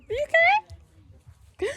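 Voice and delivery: very high, slow, sobbing mock-worried question; mock tearful. Mom asking viewers again in a drawn-out mock sob. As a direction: stretch it out like fake crying. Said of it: "Me have to talk like this from now on".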